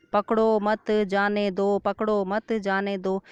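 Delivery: पकड़ो मत जाने दो recited evenly on a level pitch; even reading, words alone. Shown as a demonstration. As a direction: read पकड़ो मत जाने दो twice without contrast. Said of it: "शब्द वही हैं". ("पकड़ो मत जाने दो" एक समान सुर में)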